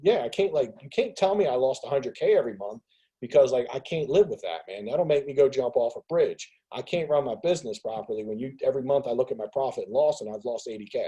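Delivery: exasperated rant. Retold or imitated. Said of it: "I'm like".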